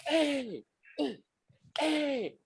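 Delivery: high calling-out hey; mock wrestler calling out. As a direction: call across the ballroom.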